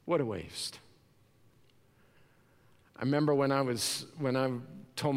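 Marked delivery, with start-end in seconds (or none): 0.0-0.8 quiet sad echo. Retold or imitated. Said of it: "the world will look at it and say".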